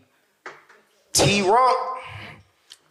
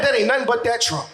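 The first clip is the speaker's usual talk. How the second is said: mock resigned blame; 2 semitones higher than usual. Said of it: "Oh, damn it".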